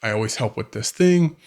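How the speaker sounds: mildly defensive, insistent listing. Acted. Husband justifying himself to his wife, mildly defensive. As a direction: protest your case as a put-upon partner. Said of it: "you start getting defensive".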